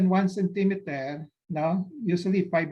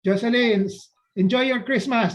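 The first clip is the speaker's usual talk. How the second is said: louder, higher parting call; 4 semitones higher, 4 dB louder than usual. Real, not acted. Doctor to departing participant Jocelyn at Christmas, calling out. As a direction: call out a cheerful goodbye.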